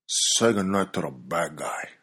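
hushed, breathy whisper of the movie line; a light whispered nod to Scarface; whispered movie quote. Retold or imitated.

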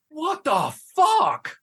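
high, very slow, crying-laughing shout; outraged disbelieving cry; shocked outburst. Retold or imitated. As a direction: stretch it out in pure disbelief. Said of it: "And I'm sitting here going".

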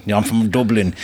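brief Dublin accent impression; a touch of broad Dublin. Shown as a demonstration. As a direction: put on a light Dublin accent. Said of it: "you really Dub-, Dublin accent".

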